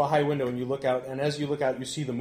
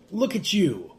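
amazed gawking; 2 semitones higher, 4 dB louder than usual. Acted. Stranger gets right in the elf's face, amazed gawking. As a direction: marvel right up in someone's face.

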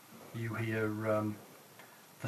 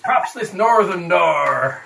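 loud, slow pirate drawl; pirate accent; 6 semitones higher, 10 dB louder, slower than usual. Acted. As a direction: roll it like a pirate. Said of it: "Personality transplant".

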